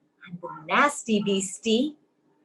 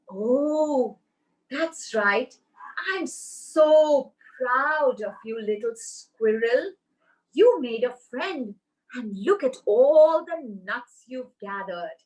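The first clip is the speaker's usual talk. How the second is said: proud mama squirrel. Acted.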